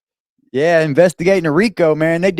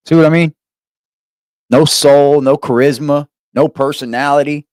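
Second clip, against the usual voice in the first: back to lively; 5 dB louder than usual. Real, not acted. Snaps back after monotone demo.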